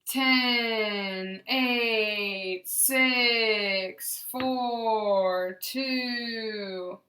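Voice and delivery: loud, even counting with no harsh stops; counting drill, loud and even; smooth, above conversational. Shown as a demonstration. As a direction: count down smoothly and strongly in one steady voice. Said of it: "and again".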